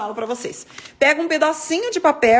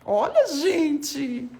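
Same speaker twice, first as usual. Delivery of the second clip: drawn-out delight; 3 semitones higher, much slower than usual. Real, not acted. Showing off the darker result.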